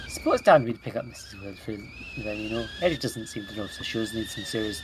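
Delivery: put-on a loose Irish accent, half by accident; drifting Irish accent. Player voicing a game character in Irish. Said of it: "This is just Irish now".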